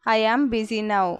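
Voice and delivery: "I am busy now" said slowly, word by word; slow, careful repeat. Shown as a demonstration. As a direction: spell it out slowly for learners. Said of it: "teacher repeats the phrase slower". (నెమ్మదిగా, స్పష్టంగా)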